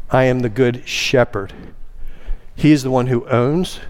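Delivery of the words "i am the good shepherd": weight settling on the last word, "shepherd"; stress on SHEPHERD. Shown as a demonstration. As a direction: set "shepherd" apart with emphasis. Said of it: "It's to place emphasis".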